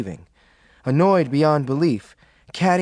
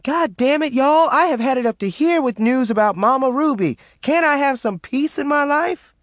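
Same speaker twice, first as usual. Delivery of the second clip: exasperated; 12 semitones higher, 3 dB louder than usual. A narrator's reading. Maureen exasperated at friends.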